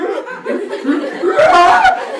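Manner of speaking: loud high fighting yell; wordless yell while flailing; frenzied yelling. Retold or imitated. Kid pummeling his bully, loud high wordless yell. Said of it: "I'm, like, just yelling".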